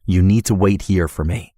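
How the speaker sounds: a controlled, no-nonsense order; firm and low. Acted. Rescuer holds her shoulders and orders her to wait, firm. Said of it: "said firm and low".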